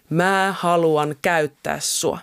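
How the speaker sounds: slow, lightly voiced words of God; God's quoted voice. Woman retelling God's call at confirmation camp, slow quoted voice. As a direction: quote it slowly and deliberately. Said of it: "Ääni sanoi mulle".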